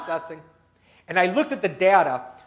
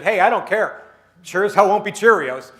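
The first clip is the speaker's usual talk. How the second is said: louder, cocky punchline; defiant kid; 6 dB louder than usual. Retold or imitated. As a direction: fire it back at Mom, louder and cocky. Second boy's defiant punchline.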